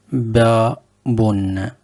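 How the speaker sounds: babun, stretched out slowly syllable by syllable; teacher sounding out babun very slowly for learners; slow demo word. Shown as a demonstration. Teacher models the new word slowly. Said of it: "on commence avec le premier mot".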